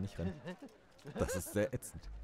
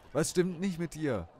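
high, loud, slow mock Indian accent shout, stress on nicht; hammed-up Indian accent yelling at her; bad Indian accent; 10 semitones higher, 7 dB louder than usual. Girlfriend yells at Penny in a clumsy Indian accent. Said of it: "Ich kann keinen indischen Akzent nachmachen".

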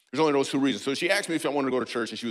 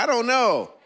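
higher, louder mock reply; mock audience voice; 10 semitones higher, 5 dB louder, slower than usual. Comedian mimicking an audience member, higher mock reply. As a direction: squeak it like a flustered fan.

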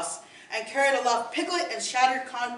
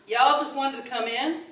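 lazy Southern American voice; confused pig asks in a Southern American accent; American drawl. Acted. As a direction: say it like an easygoing American country pig. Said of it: "hailed from the American colonies".

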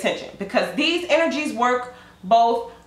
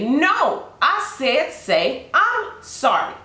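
higher, slow scolding; insistent demand; 4 semitones higher, much slower than usual. Acted. Stranger insisting on an apology, higher and slow. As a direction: spell it out slowly like a petty tyrant.

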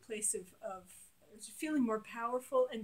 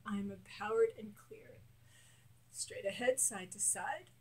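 guided affirmations. Shown as a demonstration. Coach leading a tapping exercise, steady affirmations. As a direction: lead the listener through each line.

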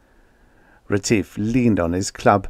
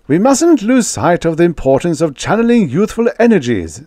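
high, loud, officious voice; pompous host hurrying proceedings along; fussy ambassador; 9 semitones higher, 5 dB louder than usual. Acted. Ambassador addresses the banquet, high, loud and officious.

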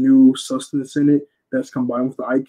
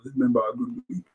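fumbled line; 8 dB quieter, faster than usual. Real, not acted. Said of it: "Sorry, it's been about".

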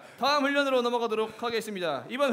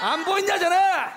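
yelling; 6 semitones higher, 5 dB louder than usual. Acted. Instructor yelling at trainee.

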